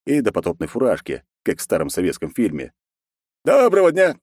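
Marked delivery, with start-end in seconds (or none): 3.4-4.2 high, bright polite village elder; a polite high-voiced stranger; politely greeting. A narrator's reading. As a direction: greet them courteously in a raised voice. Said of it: "вежливо поздоровался он".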